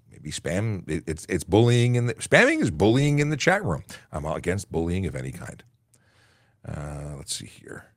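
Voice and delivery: talking around a lozenge; lozenge in mouth. Real, not acted. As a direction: speak with a cough drop in your mouth. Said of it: "with a lozenge in my mouth, I sound thirty years older".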